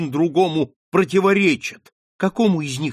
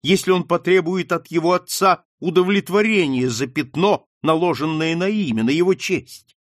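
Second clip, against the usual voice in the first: higher, louder, rising urgency; impassioned plea; 5 semitones higher, 4 dB louder than usual. Acted. Daughter's mounting plea to mother.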